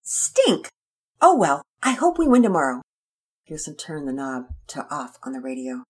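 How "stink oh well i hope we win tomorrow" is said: put-on disappointed boy.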